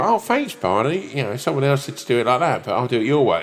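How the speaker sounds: high, meek thanks to a stranger; grateful newbie. Retold or imitated. Thanking Barney at the gym, meek and high. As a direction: gush timidly, high and eager. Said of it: "You go".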